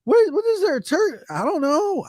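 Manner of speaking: high, stammering confusion; a hint of a startled kid; flustered son. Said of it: "and he's like".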